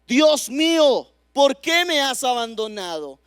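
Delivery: slow, loud anguished cry to God; pleading cry of the forsaken, slowed. Retold or imitated. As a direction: cry it out, drawing out Dios mío.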